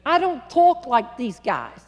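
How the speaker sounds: slow, lightly voiced New York accent; worried Long Island girl; Northern accent. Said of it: "as she said".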